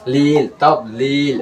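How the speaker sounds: "লিল" drawn out and closed on L; closed stop ending. Shown as a demonstration. Teacher joining the syllables for students, final lam closed. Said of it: "লামের উচ্চারণ হবো।".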